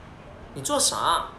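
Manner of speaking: slow, careful mainland Mandarin delivery; China Mandarin accent. Shown as a demonstration. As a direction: say 你在做什么 the mainland way. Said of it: "dia sebutan dia macam ni".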